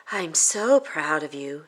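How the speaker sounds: slow, tender praise; proud mom. Acted. Mom praising Tina at the shelter. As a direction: say it gently and lovingly. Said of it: "said her mom".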